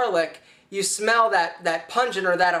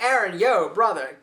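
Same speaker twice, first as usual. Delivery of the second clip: friend warning. Retold or imitated. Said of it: "been like".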